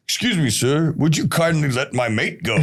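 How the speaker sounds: a hammed-up polite plea, laughing through the words; mock polite request. Retelling a mate's prison-break line to podcast host, laughing mock-polite plea. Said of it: "he's like, what did he tell us".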